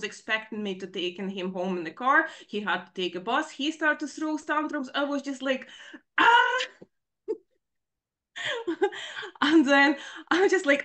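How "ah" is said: high loud exasperated yelp; high, loud frustrated cry of a mother at the end of her rope. Retold or imitated. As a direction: let out a burst of frustration. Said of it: "I'm all shaky".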